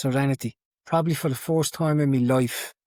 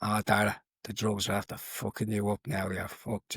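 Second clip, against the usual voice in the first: bleak inner voice; 3 semitones lower, 6 dB quieter than usual. Retold or imitated. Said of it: "a voice in my head saying".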